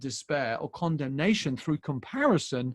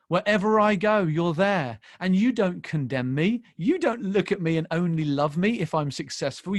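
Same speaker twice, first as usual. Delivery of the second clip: fervent prayer; 4 semitones higher, 4 dB louder than usual. Acted. Prays the Psalm to God.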